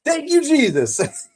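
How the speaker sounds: high, slow, loud "Thank you, Jesus"; joyful praise. Retold or imitated. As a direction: cry out thanks in relief. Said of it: "but I'm like".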